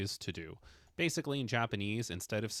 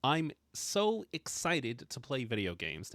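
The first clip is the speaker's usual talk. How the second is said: slow, higher, drawn-out excitement; emphatic excitement; 4 semitones higher than usual. Shown as a demonstration. Teacher translates emphatic video game sentence, excited and emphatic. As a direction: get really into it, stretching the words out. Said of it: "say that emphatically, get really into it".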